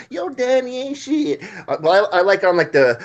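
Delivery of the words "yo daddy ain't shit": high, slow mocking yell of "Yo, daddy ain't shit"; hammed-up mama yell; mock yelling mom. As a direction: play a mother yelling across the street, pitched way up.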